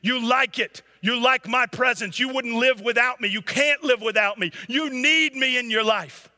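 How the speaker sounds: high, loud, frantic lizard screaming in his ear. A narrator's reading. Lizard on his back screams at the boy not to listen: high loud scream. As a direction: scream it like a clinging demon lizard. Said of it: "the lizard begins to scream at the boy".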